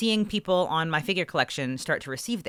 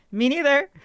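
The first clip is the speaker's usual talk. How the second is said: high, loud incredulous reply; pitched-up mock exasperation; exasperated; 9 semitones higher, 4 dB louder than usual. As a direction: toss it back in disbelief. Retold reply.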